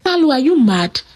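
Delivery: fast, indignant scolding of a cheating fiancé; angry. Acted. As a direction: rattle off the accusations, mildly heated. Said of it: "Some of the women got really angry".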